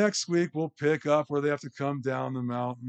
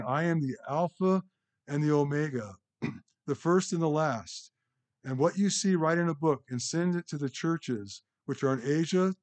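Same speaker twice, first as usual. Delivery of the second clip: measured, raised reading voice for the text; scripture reading. Acted. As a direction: read the passage out with weight to the congregation. Reads words of the voice.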